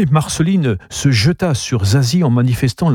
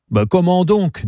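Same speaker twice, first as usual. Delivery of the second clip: sneering; 9 semitones higher than usual. Acted. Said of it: "dit Zazie en ricanant".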